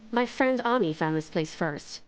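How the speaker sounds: low-pitched, aloof correction. Acted. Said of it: "Shimi is aloof".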